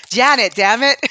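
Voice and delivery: loud, high movie-quote outburst; mock exclamation. Fan quoting Rocky Horror to the co-host, mock exclamation. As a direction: belt out the line in playful exasperation.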